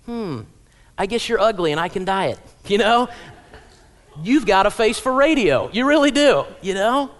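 snarky inner thought. Retold or imitated. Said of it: "I thought to myself".

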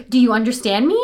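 "understand me" lifting at the end, seeking approval; upward inflection. Shown as a demonstration. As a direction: ask it unsurely, "me" tilting up. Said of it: "when you communicate like this".

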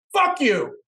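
high, loud put-on yell; imitating an angry guy; mock angry yell. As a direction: snap it like a hostile stranger. Angry stranger yelling, retold.

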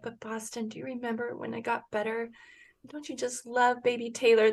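soft, tender retold talk to a child; hushed, motherly comforting; gentle reassurance. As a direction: coax a worried son gently. Mother reassuring her scared son.

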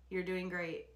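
flat calm husband voice; monotone. Retold or imitated. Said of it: "in this kind of monotone, flat voice".

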